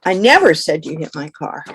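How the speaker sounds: never pressed hardest; the stress falls on never. Shown as a demonstration. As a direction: lean on the word never. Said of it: "For example".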